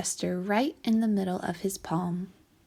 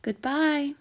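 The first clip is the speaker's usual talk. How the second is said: gentle goodbye; 6 semitones higher, 3 dB louder than usual. A narrator's reading. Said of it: "with a gentle".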